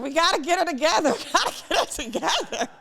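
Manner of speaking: high, loud imitation of a frantic cousin; mock frantic urgency. Speaker imitating her cousin praying over her, frantic. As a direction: play up the panicked urgency, laughing through it.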